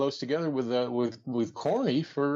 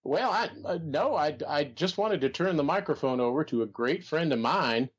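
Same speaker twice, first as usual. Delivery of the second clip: Jim Barnett impression. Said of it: "sound a little bit more like Droopy Dog".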